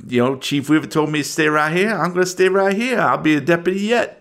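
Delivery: lightly voiced self-assured deputy; a local deputy angling for promotion; a hint of small-town lawman; folksy deputy. Game master voices local deputy.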